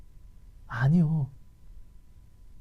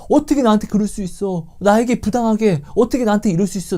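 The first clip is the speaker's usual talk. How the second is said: mock resentment; 7 semitones higher, 4 dB louder than usual. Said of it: "나를 원망하는 거예요".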